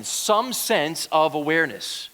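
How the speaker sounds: "some" set apart with extra emphasis; deliberate emphasis on "some"; stress on some. Real, not acted. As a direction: lean on "some" in the phrase. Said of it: "I say some sense for an important reason".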